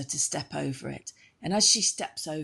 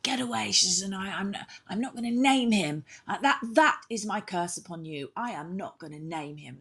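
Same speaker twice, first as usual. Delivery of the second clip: angry curse; 5 semitones higher than usual. Acted. Arianrhod curses Gwydion in row.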